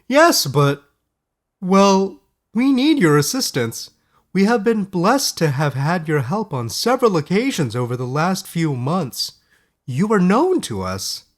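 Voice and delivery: high, loud, worried councilman voice; high-pitched councilman, loud and anxious; fussy town elder. A narrator's reading. Narrator voices Oliver.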